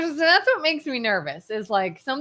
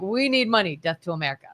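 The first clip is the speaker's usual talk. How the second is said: deadpan mock delegate; 8 semitones lower, faster than usual. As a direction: state the demand, then tack on a low muttered slogan. Voices one side at the table.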